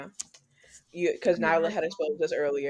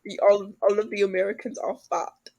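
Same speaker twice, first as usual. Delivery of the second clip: louder, lightly hammed British accent; mock British accent; 3 semitones higher, 5 dB louder than usual. British person joking about Americans, mock British accent. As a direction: imitate a Brit teasing, British accent. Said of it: "That's our best British accent ever".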